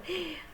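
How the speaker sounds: playful gasp of discovery; little surprised intake of breath; excited gasp. Pretend. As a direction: gasp as if delighted to find it. Mock surprise at finding puzzle piece.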